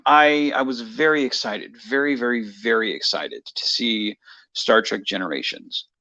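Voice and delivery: talking through a mouthful of cheesecake; words around a bite of food; mouth full. Real, not acted. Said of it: "I'm eating cheesecake".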